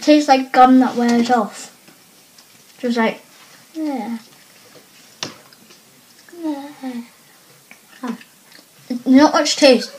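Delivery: talking with gum in mouth; chewing gum while talking. Real, not acted. Seen 0: Girl put sweet in mouth at -7, jaw chewing throughout.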